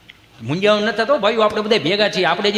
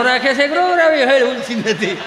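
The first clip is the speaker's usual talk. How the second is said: raised, high complaining voice; scolding wife; 4 semitones higher than usual. Acted. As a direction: scold the useless husband. Wife snaps about crying child.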